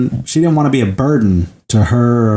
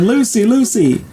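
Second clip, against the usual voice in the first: retold mock scream; 9 semitones higher than usual. Henry runs upstairs for Lucy, half-hearted mock scream. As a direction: imitate a yell without the volume. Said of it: "just runs up there screaming".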